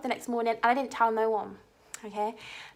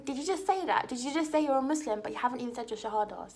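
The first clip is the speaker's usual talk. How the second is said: incredulous inner voice; 4 dB quieter, faster than usual. Retold or imitated. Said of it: "in my head I'm thinking".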